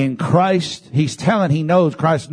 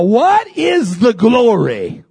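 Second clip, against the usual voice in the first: preaching shout; 7 semitones higher, 4 dB louder, slower than usual. Acted. Rhetorical question shouted.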